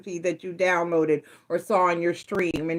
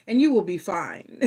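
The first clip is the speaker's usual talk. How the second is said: laughing. Real, not acted. Teasing Taurus on the couch.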